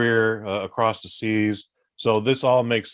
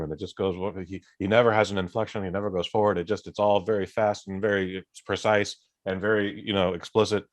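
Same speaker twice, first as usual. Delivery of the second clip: fast, precise, uninflected Jalal Murray send-up; Jalal Murray impression. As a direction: lightly mimic a monotone, precise delivery. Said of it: "That's my Jalal Murray impersonation".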